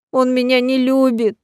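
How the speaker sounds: slow, rising tipsy lament; keen it out, drunk and heartbroken; drunken wailing. A narrator's reading. Drunk lady wailing about the rector. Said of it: "пьяно запричитала мадам".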